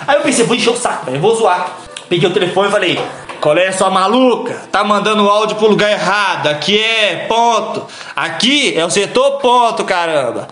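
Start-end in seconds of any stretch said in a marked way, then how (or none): 3.4-10.5 slow, drawn-out mock telling-off; playful, deliberately intoned reprimand; comic intoned voice. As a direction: intone it slowly as a joke scolding. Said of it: "eu falei com a voz entonada".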